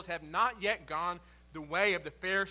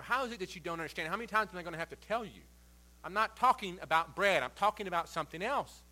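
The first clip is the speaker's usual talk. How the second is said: put-on a fed-up parent with four kids; quick, sarcastic lecture, not his sermon voice. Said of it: "the tinge and the sarcasm and the forcefulness of Jesus".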